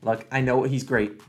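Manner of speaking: usual speaking voice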